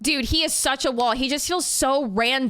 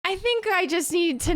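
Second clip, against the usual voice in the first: higher voice on the edge of laughter; laughing embarrassment; 8 semitones higher than usual. Real, not acted. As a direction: give up, about to crack up. Embarrassed, laughing after own slip.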